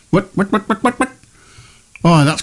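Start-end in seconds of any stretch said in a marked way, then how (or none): 0.1-1.1 rising confused whats. Real, not acted. Confused about his schedule.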